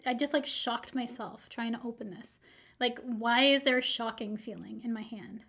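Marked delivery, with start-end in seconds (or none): 2.8-5.4 whispering. Real, not acted. Puzzled aside after shock.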